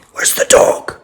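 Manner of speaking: breathy teasing whisper; hushed question to the dog. Real, not acted. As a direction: hiss it to get him looking.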